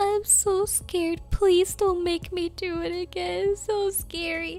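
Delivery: put-on sobbing, pleading tone. Retelling begging the teacher not to make her do it again: imitating own crying plea. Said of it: "crying my eyes out".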